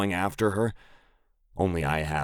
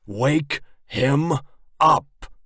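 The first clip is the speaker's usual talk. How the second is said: loud raised yell, rising on him; 8 semitones higher, 6 dB louder, much slower than usual. Acted. Biker boss yells at Doc to wake him. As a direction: shout it at the top of your lungs. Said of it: "I yell at the top of my lungs".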